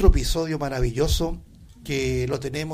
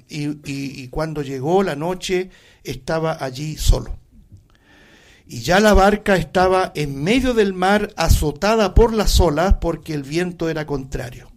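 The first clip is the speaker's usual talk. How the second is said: scripture reading; 2 semitones higher, 3 dB louder than usual. Acted. Reads Scripture aloud.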